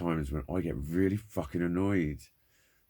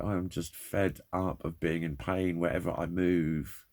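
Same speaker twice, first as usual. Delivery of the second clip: ordinary talk, nothing marked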